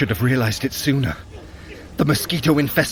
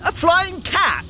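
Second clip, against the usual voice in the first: startled question. Acted. Startled by a flying beast.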